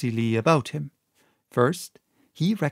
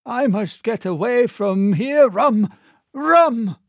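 1 frantic captain; 9 semitones higher, 5 dB louder than usual. A narrator's reading. Stricken captain begging.

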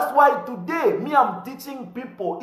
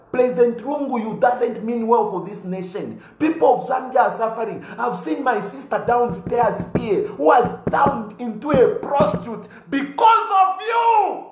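rising to a shout at the president; angry denunciation; 4 semitones higher than usual. Real, not acted. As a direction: blast the president, voice climbing high. Denouncing the president to crowd.

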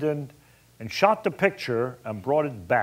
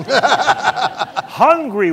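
laughing through it, drawn out and louder; 9 semitones higher, 8 dB louder than usual. Real, not acted. Telling the audience about the hungry crew, laughing. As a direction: let the laugh stretch the words out.

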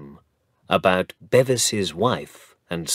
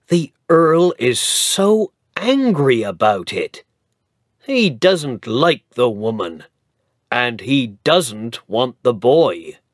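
lightly voiced village gossip, raised; gossiping villager; 3 semitones higher, 5 dB louder than usual. Villager gossiping about the angry Earl, eager. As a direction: spread the news with relish.

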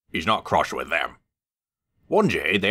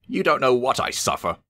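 moaning complaint; 8 semitones higher than usual. A narrator's reading. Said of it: "moaned Henry".

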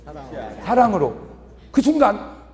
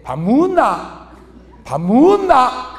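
slow, curt Gyeongsang question to the wife; gruff to wife; 4 semitones higher, 4 dB louder, slower than usual. Shown as a demonstration. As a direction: toss it off bluntly, slowly. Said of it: "마누라한테 밥 먹었냐고 물어볼 때". (아내에게 무뚝뚝하게 묻는 경상도 남편)

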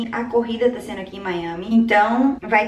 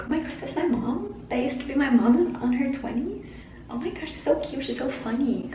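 put-on kids' voice; 3 semitones higher, 3 dB quieter than usual. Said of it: "be like".

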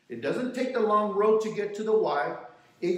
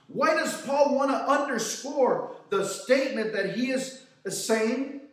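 higher-pitched rhetorical questioning; emphatic preaching; 6 semitones higher than usual. Real, not acted. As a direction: press each question on the congregation. Preacher fires rhetorical questions at congregation.

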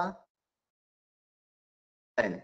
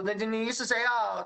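higher, bewildered question; startled old father; 9 semitones higher than usual. Acted. Blind father Isaac asks his son who he is, startled. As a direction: ask as if you can't believe who's there.

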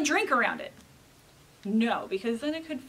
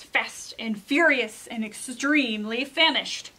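put-on measured read-aloud to children; storybook narration; 6 dB louder than usual. A narrator's reading. Reader tells children of Llama's invitation, storybook narration. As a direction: tell it like a picture book, pointing the key words. Reads a picture book aloud.

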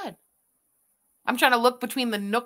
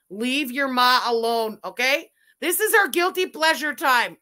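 1 mock scolding; 6 dB louder than usual. Scolding viewer's son Zach.

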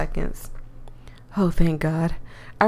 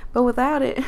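Southern accent; 4 semitones higher than usual. Shown as a demonstration. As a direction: put the country accent back on. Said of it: "I'm losing the country accent".

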